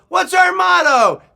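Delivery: high, loud scout leader's call; yelling. Retold or imitated. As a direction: yell it to rouse the troop. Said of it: "And he yelled".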